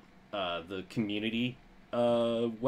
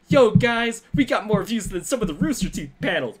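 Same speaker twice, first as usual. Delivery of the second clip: hyped yell; 10 semitones higher, 9 dB louder than usual. Retold or imitated. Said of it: "It's like".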